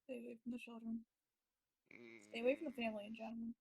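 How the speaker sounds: very soft, under the breath; hushed little aside, barely voiced; muttered aside. Real, not acted. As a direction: murmur a private warning to yourself. Player's muttered aside during scene.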